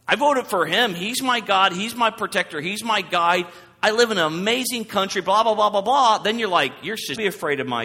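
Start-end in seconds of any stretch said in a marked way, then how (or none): 0.1-6.2 high, loud mocking rant trailing into blah blah; mocking zealot. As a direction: parody a fan's over-the-top praise.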